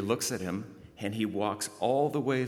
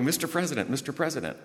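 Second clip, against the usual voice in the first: excited yelling; 7 semitones higher, faster than usual. Retold or imitated. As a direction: jump up and down and shout for attention. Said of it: "He's jumping up and down, going".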